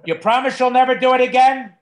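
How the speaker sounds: mock stern scolding. Owner questioning his naughty dog, mock stern scolding. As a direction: scold the dog loudly for a promise, hammed-up.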